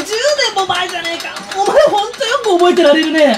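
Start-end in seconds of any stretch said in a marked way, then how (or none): 1.5-3.4 loud, snapping back; loud irritated retort; angry. Acted. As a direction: scold him for forgetting. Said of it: "そんな怒んなくたって".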